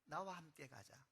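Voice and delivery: a hint of a tender divine voice; tender voice of God. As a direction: speak as a father comforting a weeping son. God answers weeping Moses tenderly.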